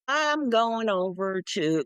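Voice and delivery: slow, light Southern drawl; Southern accent. Acted. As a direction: put on a little Southern accent, drawn out. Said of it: "a little bit of a Southern accent".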